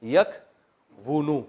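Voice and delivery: یکونو very slow, every syllable spelled out; slow drawn-out form. Shown as a demonstration. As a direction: drag یکونو out like a dictation. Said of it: "ینصرو کی طرح".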